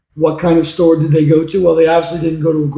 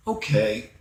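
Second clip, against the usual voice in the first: much softer, lower okay; softly; 6 semitones lower, 10 dB quieter than usual. Acted. John softly accepting mom's no, much softer. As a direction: barely voice it, disappointed. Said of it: "John said softly".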